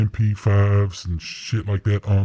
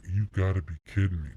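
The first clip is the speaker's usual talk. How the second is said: stunned disbelief; 3 semitones lower, 10 dB quieter, faster than usual. Retold or imitated. Friends stunned by handprints.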